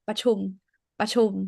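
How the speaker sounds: ประชุม said as pa-chum, without the R; ประชุม with a simple P opening, no R; dropped R. Shown as a demonstration. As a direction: leave the ร out of ประชุม. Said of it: "I drop รอเรือ here".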